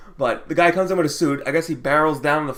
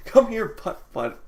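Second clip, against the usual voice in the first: slow, high mocking call; imitated daughter calling; 7 semitones higher, slower than usual. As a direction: draw out the beckoning, pitched up. Daughter's call quoted again.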